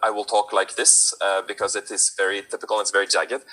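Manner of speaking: jagged Norwegian-accented English. Shown as a demonstration. Actor showing casting their Norwegian accent. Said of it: "they want a Norwegian accent".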